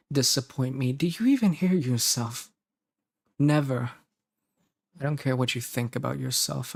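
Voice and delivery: earnest, mildly indignant then tender reassurance; devoted partner. Acted. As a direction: insist to a doubting darling, with weighted pauses. Records devoted partner's lines.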